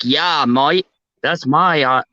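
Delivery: lightly put-on Australian accent; bad Australian accent. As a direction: imitate an Aussie bloke, badly. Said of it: "the Australians would be like".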